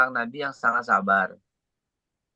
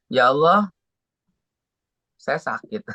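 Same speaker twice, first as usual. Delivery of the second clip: rengekan anak kecil. Retold or imitated. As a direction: plead like a child afraid to bother a parent. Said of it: "Kayak anak kecil yang merengek". (merengek pelan seperti anak kecil)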